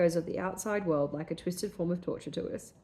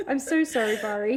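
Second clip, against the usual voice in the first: murmured brokenly; 4 semitones higher, 4 dB louder than usual. Acted. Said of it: "she murmured brokenly".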